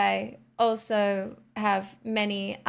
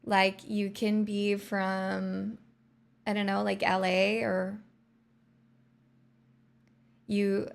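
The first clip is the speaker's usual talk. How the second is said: American accent; slower than usual. Shown as a demonstration. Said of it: "which part of America, though".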